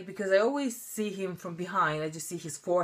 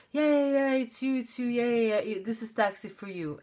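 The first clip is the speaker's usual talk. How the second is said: eager insisting; 6 semitones higher than usual. Retold or imitated.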